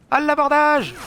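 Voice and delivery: loud, high pirate charge cry; hammed-up boarding yell; mock battle cry. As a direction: shout it like a pirate boarding a ship.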